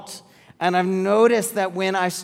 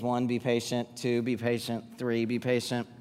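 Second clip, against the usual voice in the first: soft counted mantra; 5 semitones lower, 8 dB quieter than usual. Shown as a demonstration. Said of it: "The way to get ahead ... is".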